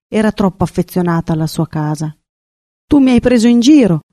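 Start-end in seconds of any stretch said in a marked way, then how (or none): 2.9-4.0 raised, higher-pitched outburst; narrator's understated shout of reproach; mild indignant cry. A narrator's reading. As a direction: cry out in protest, restrained. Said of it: "gridò il rondinotto".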